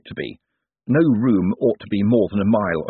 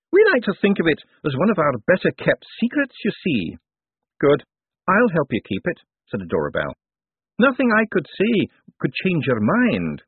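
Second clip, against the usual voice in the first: lightly voiced old wizard, higher pitched; a kindly old academic wizard, pitched up; elderly wizard; 8 semitones higher than usual. Elderly wizard greeting the visitors, higher voice. Wizard pleads to keep secret.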